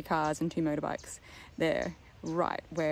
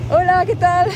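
cheery greeting; 13 semitones higher, 13 dB louder than usual. Retold or imitated. Quoting a passing driver's greeting.

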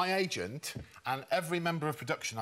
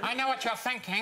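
Dirty Harry impression; 6 semitones higher than usual. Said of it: "one of the worst impressions ever".

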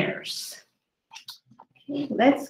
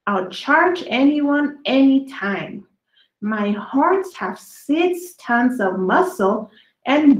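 lively storybook read, slowed on the big words; reading to children; slower than usual. A narrator's reading. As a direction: read each dinosaur poem to the kids with relish. Reading dinosaur poems to children.

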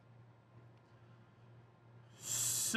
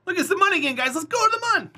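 mock excited; 10 semitones higher, 3 dB louder, faster than usual. I'm kidding.

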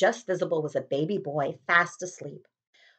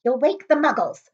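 high urgent scold; stern hushing rebuke; McGonagall voice; 8 semitones higher, 4 dB louder than usual. Acted. McGonagall scolding Hagrid, high and urgent.

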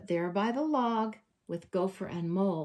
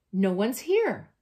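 calling out; 7 dB louder than usual. Acted. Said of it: "Bear cries".

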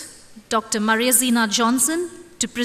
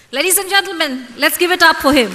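excited; 5 semitones higher, 4 dB louder, faster than usual. Real, not acted. Host calls for applause.

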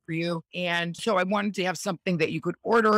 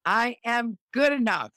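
higher, firm affirmation with gusto; total belief; 5 semitones higher than usual. Shown as a demonstration. Countess leads final affirmation with gusto. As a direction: lift and land I am good enough with conviction. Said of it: "say it with total belief in yourself".

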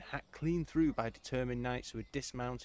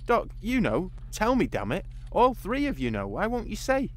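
insistent demand; 10 semitones higher, 8 dB louder than usual. Acted. Pressing the others for answer.

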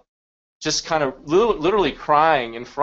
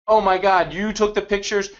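higher, louder retold astonishment; amazed reaction; 5 semitones higher, 3 dB louder than usual. Kid's mom learning who took the pictures, amazed. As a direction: imitate someone stunned by the news.

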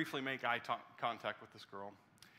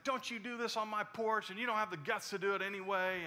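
raised-pitch scolding, volume held back; retold scolding yell; 6 semitones higher than usual. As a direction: imitate a grandmother telling someone off. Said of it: "she's yelling at her".

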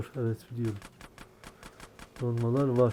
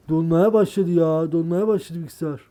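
frustrated complaint; 4 semitones higher, 8 dB louder than usual. Real, not acted. Computer freezing mid-game.

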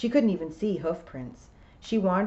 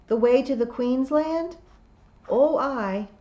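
louder, higher Scottish piper; William the piper, Scots; 8 semitones higher, 7 dB louder than usual. A narrator's reading. William answering Tiffany's call, in Scots voice.

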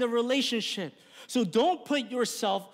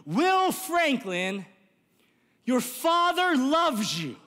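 calling out; 4 semitones higher, slower than usual. Retold or imitated. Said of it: "he yells".

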